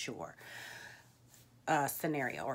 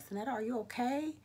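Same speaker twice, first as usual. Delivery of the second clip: concerned coworker; 8 semitones higher than usual. Retold or imitated.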